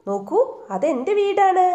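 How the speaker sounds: high, loud cry of joy; joyful shout. A narrator's reading. Abin spots his home from the crane, joyful high shout. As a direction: call out in delight at seeing home. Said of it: "സന്തോഷത്തോടെ ഉറക്കെ വിളിച്ചു പറഞ്ഞു".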